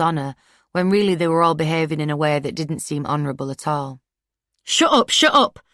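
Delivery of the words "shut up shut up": high, loud shrieking; high-pitched shriek. A narrator's reading. Ashtiak's mum screaming at Laura, high shriek. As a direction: scream her down. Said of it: "voice getting louder and more high-pitched".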